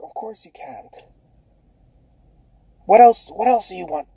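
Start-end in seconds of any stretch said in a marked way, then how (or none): 0.0-0.9 genie whisper. Acted. Genie answers the wish.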